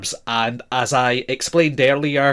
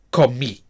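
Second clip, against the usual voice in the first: comí said "ko-MEE"; final-syllable stress; 3 semitones lower than usual. Shown as a demonstration. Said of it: "we have the stress on the final syllable".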